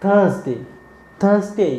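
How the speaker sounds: थर्सडे with a z sound, "thurzde"; teacher drilling थर्सडे; model pronunciation. Shown as a demonstration. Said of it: "ये भी क्या है".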